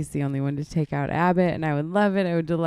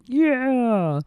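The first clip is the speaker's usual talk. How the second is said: stoner friends; 7 semitones higher, 7 dB louder than usual. Retold or imitated. Mimicking musician friends.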